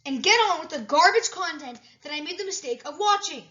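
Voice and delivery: high squeaky scolding; angry cartoon voice. Character scolds the narrator.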